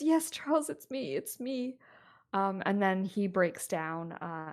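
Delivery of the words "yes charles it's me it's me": higher, reassuring wife; tender wife. Acted. Wife reassuring her confused husband, higher and gentle. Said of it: "And she says".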